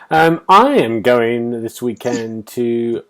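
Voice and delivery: slow, loud announcement. Real, not acted. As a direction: call it out slowly. Announcing weekend event.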